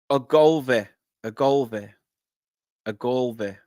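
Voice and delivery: "Ogolve" tried carefully, ending in a short "vi"; trying out pronunciation. Real, not acted. Commentator struggling with a player's name, trying out "Ogolve". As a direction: say "Ogolve" as separate falling attempts, stress on GOL. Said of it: "I'm not gonna get this right".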